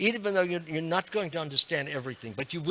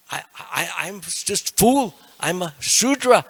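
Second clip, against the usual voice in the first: put-on slow, raised humble voice in an accent; Ramananda Roy; 4 semitones higher, 6 dB louder, slower than usual. Devotee calling himself a fool, slow accented humility. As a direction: belittle yourself slowly in a put-on accent. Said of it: "He was talking like that".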